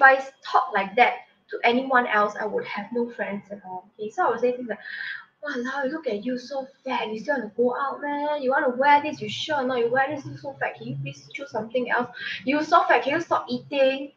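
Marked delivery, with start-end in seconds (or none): 5.4-14.1 mildly scornful self-scolding; a hint of mean nagging at herself; harsh self-criticism. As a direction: scold yourself in the mirror, lightly mocking. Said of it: "these are the things I say to myself".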